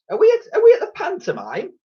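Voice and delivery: very high, put-on old officer voice; puzzled Brigadier. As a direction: ask baffled, in character. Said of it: "asked the Brigadier".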